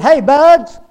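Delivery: booming, high-pitched shout; roaring lion. Acted. Lion calling out to a rabbit, roaring shout. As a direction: holler it out like a lion on the prowl. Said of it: "he was just roaring".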